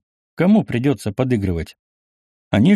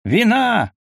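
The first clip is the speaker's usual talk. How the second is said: tipsy shout; 11 semitones higher than usual. A narrator's reading. The tipsy host shouts to his daughter for wine. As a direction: bellow it out, merry and tipsy. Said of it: "закричал расходившийся владелец".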